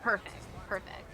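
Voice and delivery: creaky vocal fry, trailing off. Shown as a demonstration. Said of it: "There's some vocal fry for you guys".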